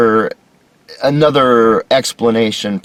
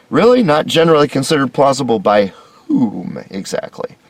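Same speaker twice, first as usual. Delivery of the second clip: incredulous; 3 semitones higher than usual. Real, not acted. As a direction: scoff at it in disbelief. Incredulous reaction to the quote.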